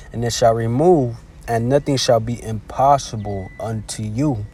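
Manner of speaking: slow, deliberate Bible reading; measured, unhurried recitation of a verse; scripture reading. Acted. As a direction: read it out slowly, phrase by phrase. Rereads the verse slowly.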